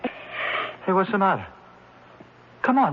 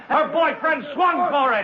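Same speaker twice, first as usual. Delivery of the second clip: gloating shout; 5 semitones higher, slower than usual. Acted. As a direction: savour it while shouting. Defendant boasting, shouting.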